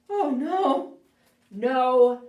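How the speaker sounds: defiant shout. Acted. Bird refusing to flee the bear, loud defiant shout. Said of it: "said the bird".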